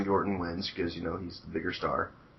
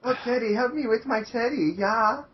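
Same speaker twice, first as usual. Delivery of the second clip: high, louder falsetto that slides toward German; failed Russian accent; 4 dB louder than usual. Retold or imitated. Friend retries Oksana's voice, high falsetto sliding German. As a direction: ham a breathy Russian vamp that goes German. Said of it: "That's more German than Russian".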